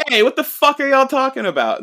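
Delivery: loud, high outraged yell; hammed-up furious shout; mock angry shout. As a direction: bark it like an offended noble. Julius shouting at gossiping women.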